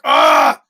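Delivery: short loud "ah"; mock yell. Driver answering the speechless kid, loud mock groan. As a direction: blurt a loud imitated groan back.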